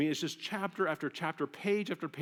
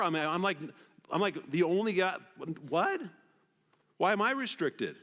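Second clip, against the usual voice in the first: higher, mock-outraged whine; indignant complaint; 5 semitones higher than usual. Single guy complaining to God, mock indignation. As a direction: play up the unfairness.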